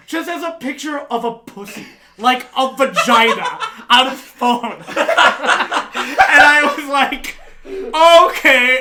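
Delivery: can barely get it out for laughing; helpless laughter mid-story; laughing hard. Real, not acted. Laughing about phone picture.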